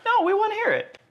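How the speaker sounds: laughing. Real, not acted. Teasing guest to try accent.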